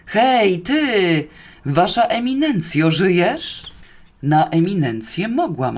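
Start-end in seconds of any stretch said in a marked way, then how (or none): 0.1-3.7 loud, higher holler down a hole; calling out. Acted. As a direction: shout to check for life. Guard calling down into the dungeon. (głośne wołanie w dół)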